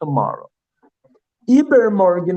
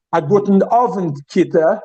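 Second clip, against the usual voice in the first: teacher greeting model; 3 dB louder than usual. Shown as a demonstration. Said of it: "What do you say?".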